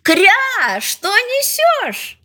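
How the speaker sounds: high quacked call, stretched out; mother duck calling. A narrator's reading. Mother duck asks her duckling what it carries, calling high. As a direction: call out a slow, high-pitched question as a duck. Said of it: "а мама крикнула".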